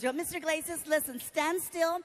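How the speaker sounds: lightly voiced nurse giving instructions; instructing nurse. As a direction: guide the patient step by step. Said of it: "she gives me instructions".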